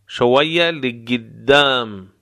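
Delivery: slow, drawn-out شویه لقدام; slow model. Shown as a demonstration. Teacher modelling the direction for learners, slow and deliberate. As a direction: stretch each word for a learner to copy.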